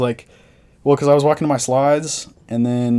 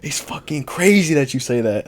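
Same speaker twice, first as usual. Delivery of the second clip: put-on high-pitched, animated New Orleans accent; put-on New Orleans accent, high and stretched out; New Orleans local's accent; 6 semitones higher, 4 dB louder than usual. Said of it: "I'm gonna do the accent".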